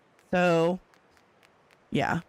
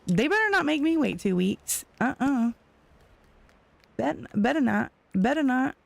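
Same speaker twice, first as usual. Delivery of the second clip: mock threat; 5 semitones higher than usual. Real, not acted. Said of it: "warning about the delivery wait".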